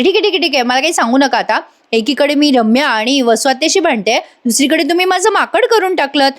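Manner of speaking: high-pitched fed-up retelling; acted exasperation. Kavya cutting off explanations from everyone, acted exasperation. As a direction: cut them off in mock exasperation, pitch jumping up.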